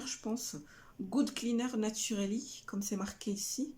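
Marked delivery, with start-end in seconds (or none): 1.0-2.6 English label read in a French accent; French speaker's careful English. Real, not acted. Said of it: "critiquer mon accent anglais".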